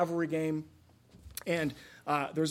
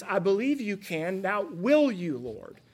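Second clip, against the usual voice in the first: confident faith; 3 semitones higher, 4 dB louder than usual. Shown as a demonstration. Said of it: "What he should have said is".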